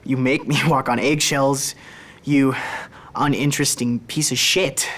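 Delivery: retold mother's yell, held back; mock yelling. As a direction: spit out the insult at a measured yell. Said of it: "when she's yelling".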